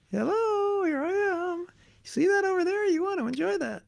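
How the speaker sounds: high, sing-song coaxing voice of the mind; the mind as a tempter. Retold or imitated. The mind teasing its owner, high and sing-song. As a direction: lure him in, sweet and high. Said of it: "It's like".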